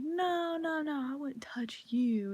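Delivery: put-on reassuring girl. Girl reassuring her she won't hit her, whispered. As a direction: hush her worry. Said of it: "She's like".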